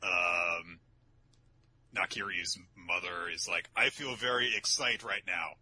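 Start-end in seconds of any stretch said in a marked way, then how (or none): 3.7-5.5 lightly put-on Danish accent; careful foreign phrasing in mock Danish accent. Mother at the judges' table, mild Danish accent. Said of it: "because she's Da-, Danish".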